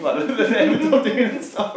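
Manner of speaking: high, slow, giggling mock sympathy; brother's teasing, laughing; laughing while quoting. Brother laughing while winding him up.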